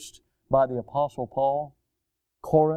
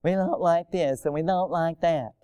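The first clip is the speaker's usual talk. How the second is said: grumbling complaint; 3 dB quieter than usual. Retold or imitated. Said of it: "a nation of grumblers".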